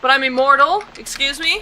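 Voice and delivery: high, indignant questioning; incredulous protest. Real, not acted. Player objects that they are immortal, incredulous protest. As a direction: push it up high in disbelief.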